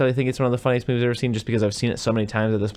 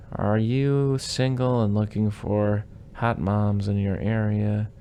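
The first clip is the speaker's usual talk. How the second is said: mock sleazy spam read; slower than usual.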